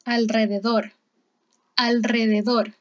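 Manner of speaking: "alrededor" with the R after L trilled; careful, deliberate "al-rrededor"; strong R after consonant. Shown as a demonstration. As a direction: roll the R following L in "alrededor". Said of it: "cuando está detrás de una consonante".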